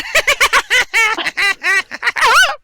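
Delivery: high shrieking goblin cackle. Acted. Goblin laughing.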